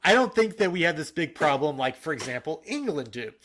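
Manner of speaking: lightly put-on Russian accent. Host reading out a letter of complaint, slight Russian accent. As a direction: quote him with a hint of Russian. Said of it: "I'm doing a Russian accent".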